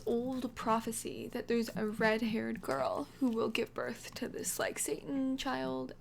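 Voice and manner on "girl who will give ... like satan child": hushed whisper. Retold or imitated. Ominous prophecy retold.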